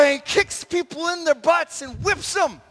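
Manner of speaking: loud, high, excited shout; shouted storytelling. Acted. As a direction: shout the rampage as it happens. Acts out the rampage.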